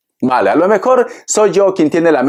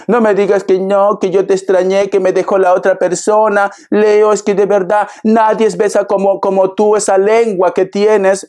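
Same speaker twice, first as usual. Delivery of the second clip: mock sweet-talking ex; 5 semitones higher than usual. Voicing the returning ex.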